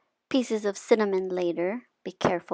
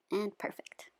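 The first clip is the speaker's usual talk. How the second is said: satisfied whisper; 8 dB quieter than usual. Real, not acted. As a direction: whisper your approval. After tasting the chocolate.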